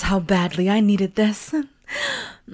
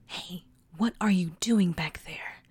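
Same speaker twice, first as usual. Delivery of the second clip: secret whisper aside; 3 semitones lower, 6 dB quieter than usual. Acted. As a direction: hush it so the caller won't hear.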